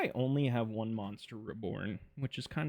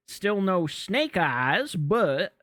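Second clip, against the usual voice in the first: loud; 5 semitones higher, 7 dB louder, much slower than usual. Real, not acted. Disappointment over missing card.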